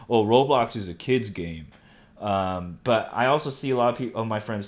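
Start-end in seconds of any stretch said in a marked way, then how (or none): 0.1-1.7 imitating a listener. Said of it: "some of you are gonna be like".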